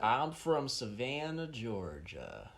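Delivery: slow Savannah drawl; steady, drawn-out southern accent. Shown as a demonstration. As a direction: show how the southern accent should go. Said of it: "you lost it as you were saying".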